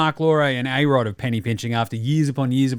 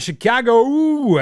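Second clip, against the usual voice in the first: excited; 9 semitones higher, 6 dB louder, slower than usual. Real, not acted. Excited game recap opener.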